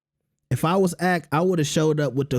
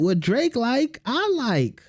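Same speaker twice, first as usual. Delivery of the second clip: imitation of a recording artist; 8 semitones higher, slower than usual. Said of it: "she on her D J Khaled".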